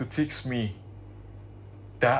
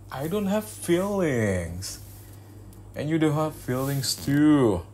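slow, high and flatly emphatic; cold dismissal; 7 semitones higher, 3 dB louder, much slower than usual. Acted. Telling the crying girlfriend she has no feelings, slow and cold. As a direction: spell it out coldly, word by word.

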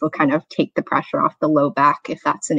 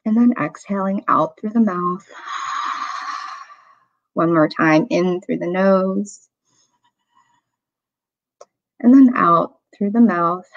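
unhurried meditation guide with long pauses; guided meditation. Real, not acted. Meditation teacher inviting listeners into a body scan, calm guiding voice. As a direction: gently lead them through the breath, leaving room between phrases.

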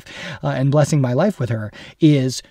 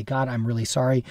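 softer, lower sincere apology to God; apologetic prayer; 3 semitones lower, 3 dB quieter than usual. Retold or imitated. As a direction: murmur a contrite sorry to God. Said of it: "I quickly apologize to God and say".

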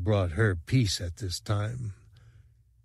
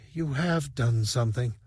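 soothing; 3 semitones higher, 3 dB quieter than usual. A narrator's reading. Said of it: "Dice said soothingly".

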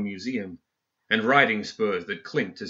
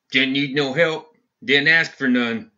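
cold gruff retort; 4 semitones higher, 5 dB louder than usual. Acted. Ferris snaps back angrily.

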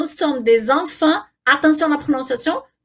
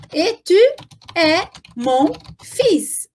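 word by word; slower than usual. Shown as a demonstration. Teacher spacing words for learners.

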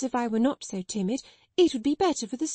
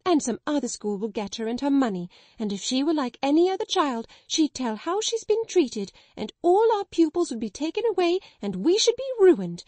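building to much higher, louder shrieking; hysterical; 5 semitones higher, 5 dB louder than usual. Acted. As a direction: spiral from rant into shriek. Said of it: "her hysterical chokes and gurgles".

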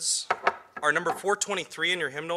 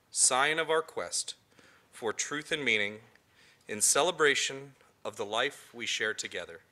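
slow, measured ritual words; liturgical reading; slower than usual. Acted. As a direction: recite it reverently. Chalice lighting words read.

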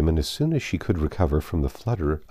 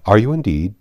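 louder, eager broken-off question; eager cry; 3 semitones higher, 7 dB louder than usual. A narrator's reading. Man eagerly questioning Emma before checking himself, eager cry. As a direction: blurt it hopefully, then stop short. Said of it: "cried he, looking eagerly at her".

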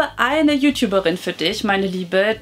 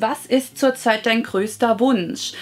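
reading out a viewer question; slower than usual. Acted. Vlogger reads Claudia's question on wishes, read-out voice. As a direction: read it out, measured and clear.

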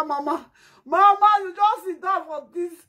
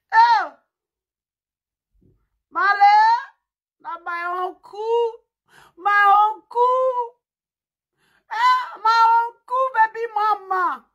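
mock wailing; 4 semitones higher, 5 dB louder, slower than usual. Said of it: "I dey help you cry".

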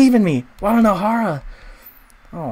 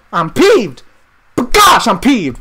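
mock peeved; 3 semitones higher, 8 dB louder than usual. Real, not acted. Angry at betrayal.

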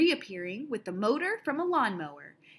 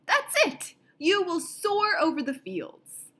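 much higher and louder, triumphant; old man shouting for joy; excited shout; 7 semitones higher, 4 dB louder than usual. Acted. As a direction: burst out with the discovery. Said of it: "he shouted".

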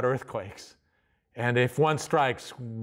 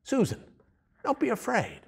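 gentle angel voice. Pretend. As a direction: comfort them like an angel would. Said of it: "an angel that suddenly appeared and said".

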